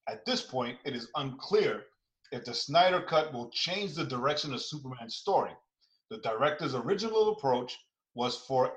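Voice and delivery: crisp newscaster read; news reporter voice. Shown as a demonstration. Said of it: "my news reporter voice now".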